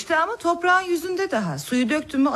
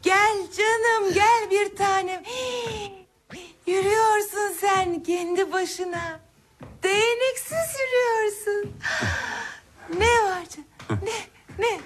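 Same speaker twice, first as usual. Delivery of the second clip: tender coaxing; 6 semitones higher than usual. Acted. Anne çocuğu şefkatle çağırıyor. (şefkatle, yavaşça)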